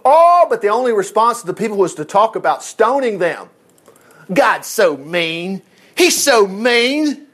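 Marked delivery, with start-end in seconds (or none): 4.3-7.2 whining complaint. Acted. People whining.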